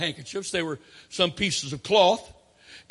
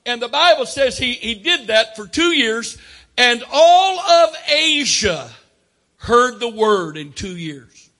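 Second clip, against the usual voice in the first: louder, stretched-out preaching; emphatic preaching; 4 semitones higher, 8 dB louder than usual. Real, not acted. Preacher telling how all of Asia heard the word, emphatic preaching. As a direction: preach it out, stretching the big words.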